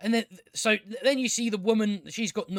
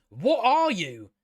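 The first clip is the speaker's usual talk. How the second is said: slow, drawn-out mock puzzled elf; mock elf wonder; 2 semitones higher, 3 dB louder, slower than usual. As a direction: stretch it out like a baffled elf. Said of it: "So him going".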